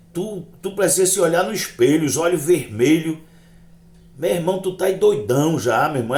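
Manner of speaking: animated, high-pitched reproach; scolding friend. Retold or imitated. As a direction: act out a friend scolding a drunk. Friend scolds him for being stoned.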